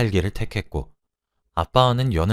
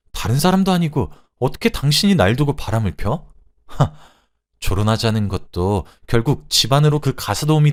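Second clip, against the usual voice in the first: raised-voice tirade of a betrayed wife; angry shouting; 4 semitones higher, 4 dB louder than usual. Acted. Wife confronts husband over his affair, angry outburst. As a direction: let hurt indignation push the pitch up. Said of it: "라고 소리쳤습니다".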